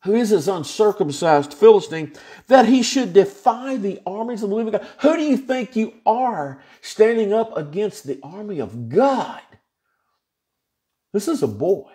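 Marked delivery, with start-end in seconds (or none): 5.0-9.4 higher, indignant call-out; a young shepherd's bold rebuke; defiant challenge. Acted. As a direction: dare the giant to stand against God. Preacher acting out David's defiance.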